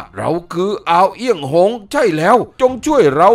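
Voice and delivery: a drowning man cries out from the dark sea; distant cry for help. A narrator's reading. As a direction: plead for rescue over the waves. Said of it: "ร้องบอกแว่วมาแต่ไกล".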